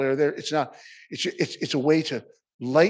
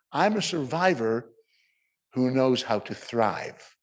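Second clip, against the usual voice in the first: confident; 2 semitones lower, slower than usual. Real, not acted. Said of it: "confidently say".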